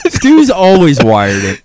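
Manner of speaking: slow, laughing tease. Real, not acted. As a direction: chuckle through it. Teasing Stu, laughing.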